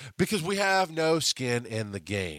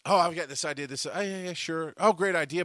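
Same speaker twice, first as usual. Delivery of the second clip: mock fake enthusiasm, pitched up; dismissive coworkers; 4 semitones higher than usual. Office coworkers faking interest in her idea, hollow cheer.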